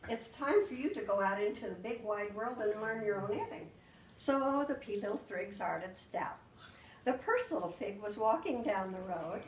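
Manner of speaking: put-on storytelling voice reading to children; story-time narration full of swapped sounds; spoonerized fairy tale. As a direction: tell the tale like to a class of kids. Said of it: "And so then I started out".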